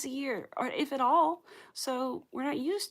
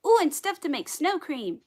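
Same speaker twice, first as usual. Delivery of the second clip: sudden excitement; 7 semitones higher, 8 dB louder than usual. Real, not acted. Gasp at remembering snow cream.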